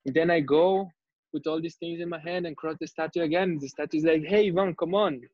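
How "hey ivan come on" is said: higher, insistent retold call; more aggressive. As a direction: press him for attention, pitched up. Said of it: "and more aggressively".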